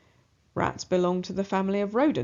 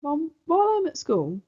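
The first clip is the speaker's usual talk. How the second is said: put-on high, pleading child voice; boy asking his mother to mind the rat; naive boy asking; 10 semitones higher, 3 dB louder than usual. A narrator's reading. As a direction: ask sweetly like an innocent kid. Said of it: "Ronnie asks naively".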